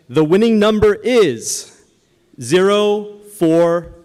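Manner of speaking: slow drawn-out number call; raffle caller. Acted. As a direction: stretch each digit like a raffle caller. Calling raffle number to crowd.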